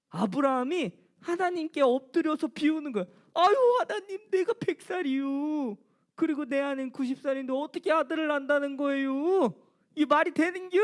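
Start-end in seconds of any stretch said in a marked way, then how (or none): 3.3-10.8 mocking disbelief. Abraham mocking God's promise of a son. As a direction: brush off the promise with a scornful sigh. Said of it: "하나님을 비웃으면서 이야기했다".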